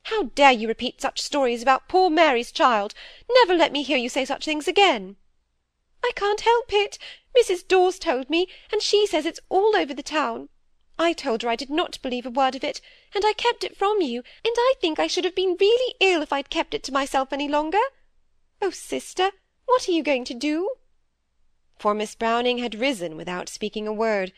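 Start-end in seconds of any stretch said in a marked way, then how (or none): 0.0-5.2 a louder, indignant denial. A narrator's reading. Miss Browning defending Molly against gossip, indignant and louder. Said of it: "said Miss Browning indignantly". 6.0-20.8 higher, fretful little-sister voice; timid younger sister. Acted. Phoebe fearfully confessing to her sister, higher anxious pleading.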